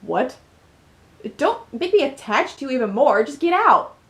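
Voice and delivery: lightly acted distressed heroine, pushing someone away; upset heroine. Acts upset game heroine.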